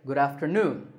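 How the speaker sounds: Good afternoon, leaning on NOON; stress on third syllable. Shown as a demonstration. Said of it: "the third syllable is stressed".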